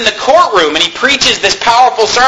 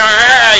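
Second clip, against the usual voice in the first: clenched-teeth growl; 2 semitones higher than usual. Shown as a demonstration. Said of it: "talking through their teeth like this".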